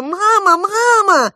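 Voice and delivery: high, loud cry for mother; girl shrieking for her mother; screaming for mom. A narrator's reading. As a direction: call out for help in terror. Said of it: "Я закричала".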